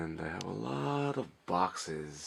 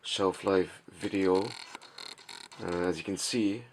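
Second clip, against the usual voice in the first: monotone voice. Real, not acted. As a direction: speak in a flat monotone so nobody wakes. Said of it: "sorry for the, uh, monotone voice and, uh, kind of quiet demeanor".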